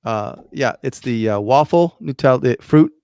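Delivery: real stumbling over the words; halting search for the right words, with fillers; tongue-tied. Real, not acted. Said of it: "I'm having a hard time speaking".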